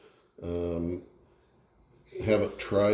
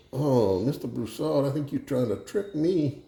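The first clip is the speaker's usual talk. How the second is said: Justin Wilson; 6 semitones higher than usual. Acted. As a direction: muse suspiciously in a Cajun joke voice. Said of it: "do the Justin Wilson thing and tell a joke".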